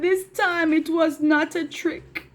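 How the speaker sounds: a lightly voiced boy pleading, slow; shepherd boy pleading with the villagers, slow; boy's plea. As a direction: slowly plead as the upset little boy. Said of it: "the boy said".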